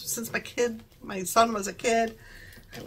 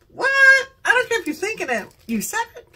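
higher, playfully affronted retort; mock indignation; 11 semitones higher, 4 dB louder, faster than usual. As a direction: act out an offended comeback. Acted indignant reaction to overheard remark.

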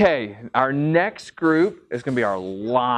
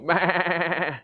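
lamb bleat; 4 dB quieter than usual. Shown as a demonstration. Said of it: "you're gonna go".

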